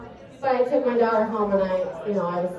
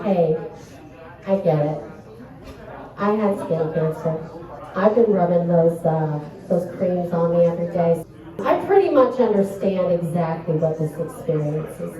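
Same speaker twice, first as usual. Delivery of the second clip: mock sympathy; 6 semitones lower than usual. Mock consoling friend over skin cancer.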